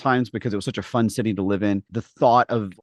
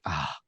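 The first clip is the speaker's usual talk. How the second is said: deflated sigh; 7 semitones lower, 11 dB quieter than usual. Retold or imitated. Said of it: "I was like".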